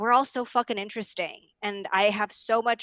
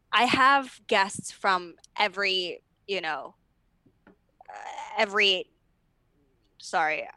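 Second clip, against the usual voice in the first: hungover. Real, not acted. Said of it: "I'm a little hungover".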